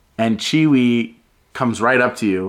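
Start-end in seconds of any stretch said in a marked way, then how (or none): none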